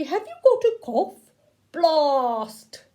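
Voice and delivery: a toy robot squeaking its question then booming blast. Acted. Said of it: "It said to Harry".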